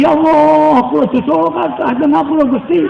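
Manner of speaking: tearful prayer. Pretend. Preacher acts out a sinner begging God for forgiveness, mildly tearful. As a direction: plead to God like someone about to cry.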